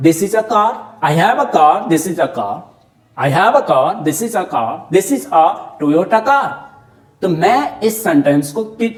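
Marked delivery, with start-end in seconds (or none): 4.9-6.5 slow example. Shown as a demonstration. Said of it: "कितनी तरह से कार को बोल सकता हूं".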